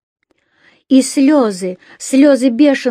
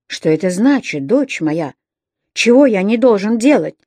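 menacing question. Acted. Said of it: "грозно спросил он".

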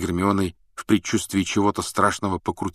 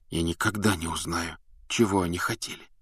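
quiet; 5 dB quieter than usual. Acted. Harry's bitter quiet reply.

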